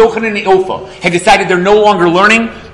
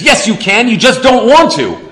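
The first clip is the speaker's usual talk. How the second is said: amused rebuke; 6 semitones higher than usual. Acted. Stranger echoes Baal Shem Tov's rebuke.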